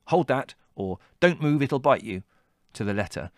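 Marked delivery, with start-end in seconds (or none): 0.1-0.5 put-on curt, raised boy's command; terse order. A narrator's reading. Boy giving terse orders to his companion, curt. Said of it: "my terse instructions". 1.2-2.2 curt, raised urgent warning; terse warning. A narrator's reading. Boy warning Adrian about a creature, terse. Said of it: "my terse instructions".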